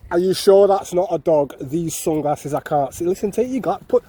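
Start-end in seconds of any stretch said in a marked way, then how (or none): 0.1-3.0 mocking her. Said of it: "Have you heard?".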